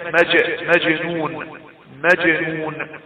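مجنون with a short echo after ج; qalqalah on ج. Shown as a demonstration. Teacher giving an example word, rebounded ج in مجنون. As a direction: bounce the still ج in مجنون. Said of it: "يبقى الحروف قطب جد".

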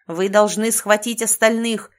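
loud commanding roar. Acted. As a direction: bellow the order at them. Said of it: "взревел властелин".

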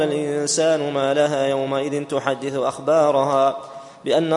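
measured, chanted tajweed recitation; Quran recitation. Acted. Student recites Surat al-Zalzala before the lesson, chanting. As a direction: recite the verses in a melodic chant.

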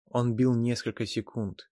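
ordinary delivery

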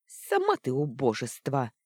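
злобно выплюнь, громче; брось оскорбление в ответ; выплюнула. Acted. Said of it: "выплюнула она". (злобно выплёвывая)

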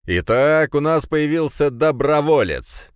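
loud, high showman cry; rally the crowd with a shout; announcer shouting. Acted. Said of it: "вновь закричал ведущий". (крик ведущего)

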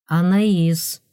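shy and tender. Acted. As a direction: say her name with shy softness. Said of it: "с абсолютно дикой для него робостью и неописуемой мягкостью".

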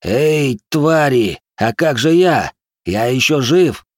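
loud, high, wet gurgling wheeze; gurgling croak. Acted. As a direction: croak it out through blood. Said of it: "прохрипел, едва угадывая свой странный булькающий голос".

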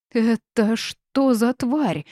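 high, loud, stretched-out cry; shrieked. A narrator's reading. Darren sees the swamp monster crawl out, shrieking. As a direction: squeal it slowly in alarm. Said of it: "взвизгнул Даррен".

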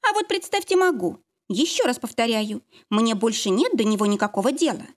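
defiant and cold. Acted. Lara defiant, ends call.

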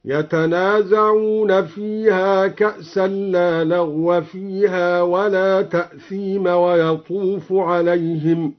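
slow chant with لا and لغو vowelled with fatha; slow Quranic chant with the fatha on لغو; recitation with لا as negation. Shown as a demonstration. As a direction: recite slowly, reading لغو as لغوَ with open fatha. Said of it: "هكذا".

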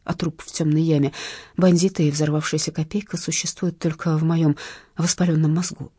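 ordinary delivery, nothing marked

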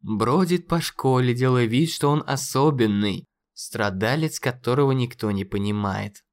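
lightly venomous taunt; venomous mockery. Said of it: "в голосе его зазвучали ядовитые нотки".

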